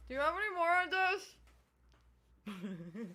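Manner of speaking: asking with a mouthful of stew; mouth full. Pretend. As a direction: talk round the food while eating. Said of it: "continue shoveling food in my mouth".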